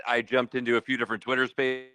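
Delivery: breathless after a climb; out of breath. Real, not acted. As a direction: talk while still winded. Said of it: "I'm catching my breath here".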